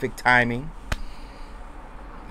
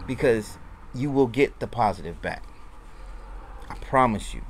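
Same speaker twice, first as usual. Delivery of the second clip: sincere encouragement; 4 dB quieter than usual. Real, not acted. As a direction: speak gently to anyone who's struggling. Sincere message to struggling viewers.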